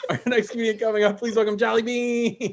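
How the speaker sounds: comedy host introduction. Real, not acted. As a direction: call the next act to the stage. Host bringing on next comic.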